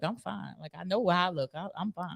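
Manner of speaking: soft confident. Shown as a demonstration. Showing how dudes really say it, softly. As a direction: say it soft and sure of yourself. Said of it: "That shit sounds sassy coming from you".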